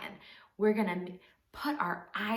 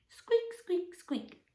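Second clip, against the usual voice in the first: very high, tiny squeaks; mouse squeak; 9 semitones higher, much slower than usual. Pretend. Practising the story cue with children, tiny high squeaks. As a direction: give your best little mouse. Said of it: "best mouse with that squeak".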